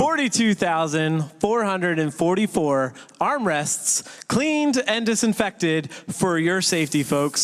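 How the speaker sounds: slow, weighty announcement of the figure; slow dramatic reveal. Acted. Host one-upping cohost's stat, slow showy reveal. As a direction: stretch each number out for effect.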